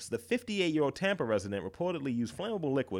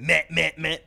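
louder, higher whiny meh; mock whine; 4 semitones higher, 7 dB louder than usual. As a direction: whine it like a sulking kid. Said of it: "He said".

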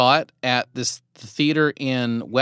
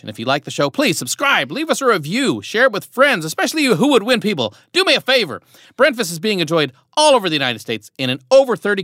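promo read; 3 semitones higher than usual. Acted. Host reads podcast outro promo.

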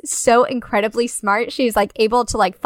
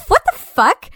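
mock shock; 8 semitones higher, 4 dB louder than usual. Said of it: "and she's like".

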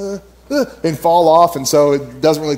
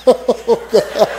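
pained groan; 6 semitones higher than usual. Retold or imitated. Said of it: "I'm like".

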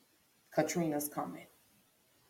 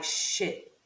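breathy whispered curse of dread; 6 dB quieter than usual. Retold or imitated. Realising the hurricane turned toward them, whispered curse. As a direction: breathe the curse out like bad news just landed.

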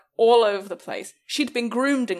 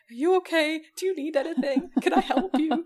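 fussing worried owner; 9 semitones higher than usual. Retold or imitated. Fussing over hurt dog.

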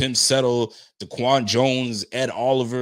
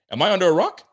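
laughing disbelief; 8 semitones higher, 6 dB louder, faster than usual. Real, not acted. Laughing disbelief at own mistake.

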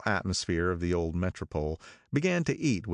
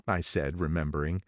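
ordinary delivery

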